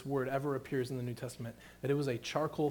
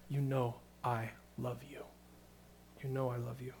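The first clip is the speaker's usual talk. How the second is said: softer, gentle reply; soft humble answer; 2 semitones lower, 8 dB quieter than usual. Retold or imitated. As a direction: answer quietly, without bragging. Peter's humble answer, quoted softly.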